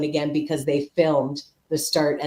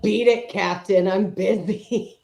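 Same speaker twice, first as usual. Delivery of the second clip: dismissive Lwaxana; 4 semitones higher, slower than usual. Retold or imitated. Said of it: "And she's like".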